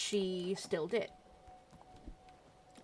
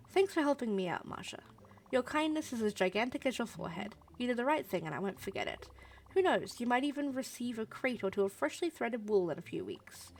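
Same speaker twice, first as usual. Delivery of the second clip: higher, lilting put-on gratitude; game heroine, falsely sweet; 3 semitones higher than usual. Astrid takes leave of disliked Marsha, falsely sweet. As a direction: thank someone you can't stand, sweetly.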